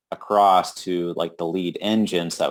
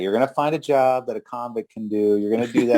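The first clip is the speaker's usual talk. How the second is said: harsh reality check; 3 semitones higher, faster than usual. Retold or imitated. Convict scolds his partner, a hint of contempt. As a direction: belittle him, rattling it off. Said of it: "gives him a reality check".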